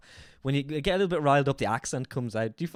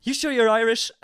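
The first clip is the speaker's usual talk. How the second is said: mock clinic staff; 9 semitones higher, 7 dB louder than usual.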